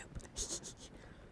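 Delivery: small breath-only laugh; whispered giggle. Real, not acted. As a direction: giggle under your breath. Amused aside about the soup.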